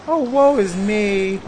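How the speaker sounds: melodramatic lament. Acted. Cabin boy laments melodramatically.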